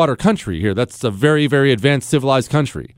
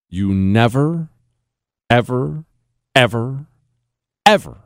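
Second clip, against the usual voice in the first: stack the evers, hitting the last hard; building emphasis; 4 semitones lower than usual. Shown as a demonstration. Warning listeners about a common mistake, insistent. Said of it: "emphatic repeated ever".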